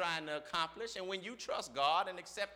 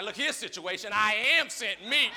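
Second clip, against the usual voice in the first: commanding; 2 semitones higher, 9 dB louder than usual. Pretend. Voicing believer to situation.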